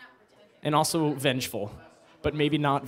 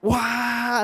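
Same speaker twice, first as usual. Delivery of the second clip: high, loud mock wail; imitating Hamlet's outburst; 10 semitones higher, 6 dB louder than usual. Imitating Hamlet lurching toward revenge, mock wail. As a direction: yelp it like a fickle prince. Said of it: "He kinda goes".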